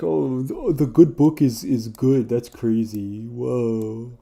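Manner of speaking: high, loud gushing over something obvious; mock awed fan. Mocking a fan who gushes that the good book is good. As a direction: gush like a dazzled fan.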